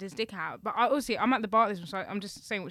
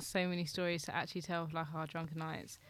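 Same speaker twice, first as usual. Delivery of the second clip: whisper; 3 semitones lower, 6 dB quieter than usual. Real, not acted. Aside about drunken nights.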